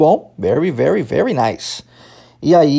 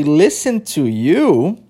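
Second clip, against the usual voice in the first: drawn-out questioning echo, rising at the end; incredulous echo; much slower than usual. Acted. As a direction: throw it back as a slow, disbelieving question. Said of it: "Como assim ouvir, ouvir você?". (repetição incrédula, em tom de pergunta)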